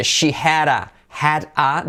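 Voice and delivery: slow "had a" with the d tapped like a soft r; soft-R flap. Shown as a demonstration. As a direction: say "had a" as "hara", linked. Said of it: "D como R suave".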